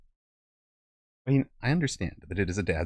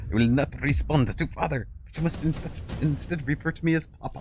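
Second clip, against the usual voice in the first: a light put-on British accent, raised pitch, reading the child's message; lightly voiced British kid demanding to be called Papa; mock British accent; 5 semitones higher than usual. Streamer reading out his child's message, in a light mock British accent. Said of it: "child has developed a British accent".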